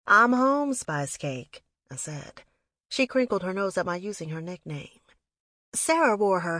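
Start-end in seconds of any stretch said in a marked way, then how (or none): 0.1-1.6 raised, louder glad reply; high, loud homecoming announcement; happy greeting. A narrator's reading. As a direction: answer her excitement in kind. Answers excited sister in kind.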